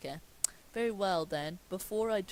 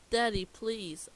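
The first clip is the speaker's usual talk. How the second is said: pleading; 4 semitones higher, 7 dB louder, slower than usual. Acted. Mindy begs her father.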